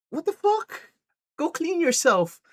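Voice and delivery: high-pitched mock disbelief; mock appalled. Boyfriend finds the mess, mock appalled. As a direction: act appalled in a squeaky high voice.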